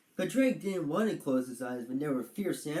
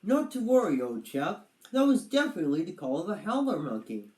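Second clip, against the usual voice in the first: higher and louder, brisk reassurance; calm a jumpy friend; lightly voiced confident turtle; reassuring; 4 semitones higher, 4 dB louder than usual. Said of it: "Roger explained".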